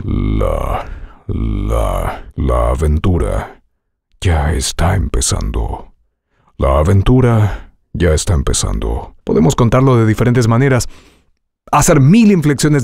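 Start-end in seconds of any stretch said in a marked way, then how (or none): 0.0-5.9 very low, slow epic trailer read; deep trailer voice. Shown as a demonstration. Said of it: "saber colocar aquí". 6.6-9.1 deep trailer voice. Shown as a demonstration. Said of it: "Te sugiero algunas".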